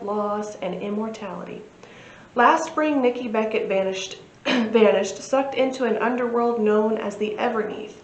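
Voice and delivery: lightly dramatic book-blurb reading; measured narration with a touch of drama; synopsis read-aloud. Acted. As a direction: read the blurb like a storyteller, clearly and evenly.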